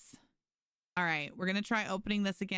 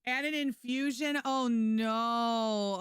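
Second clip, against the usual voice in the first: higher, worried disbelief; concerned surprise; 3 semitones higher, much slower than usual. Real, not acted. Hearing a friend needed blood, worried surprise. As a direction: react with alarm to the news. Reacting to friend's hospital news.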